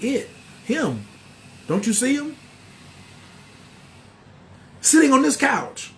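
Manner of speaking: a scared woman seeing something on the couch; frightened client. Retold or imitated. Client tells the reader she sees the entity, a frightened, rising voice.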